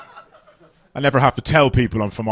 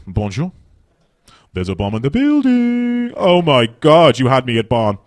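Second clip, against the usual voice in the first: mock French accent; slower than usual. French terrorist phoning a bomb threat, mock French accent. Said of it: "French terrorist ringing up".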